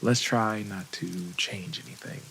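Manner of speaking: calm meditation guide with long pauses; guided meditation. Acted. Therapist leading listeners through a last meditation session, guided meditation voice. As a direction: ease the listener through it, unhurried.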